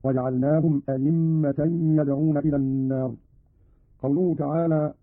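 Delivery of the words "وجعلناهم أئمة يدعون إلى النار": full y sound in the middle of "أئمة"; hamza as pure ya. Shown as a demonstration. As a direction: say "أئمة" as a-yimma. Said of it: "أو إبدالها ياء خالصة هكذا". (إبدال همزة "أئمة" الثانية ياء خالصة)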